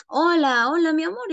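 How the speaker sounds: lovestruck texter. Acted. Teacher mimicking students texting a sweetheart, lightly gushing. Acting out a sweetheart's text message.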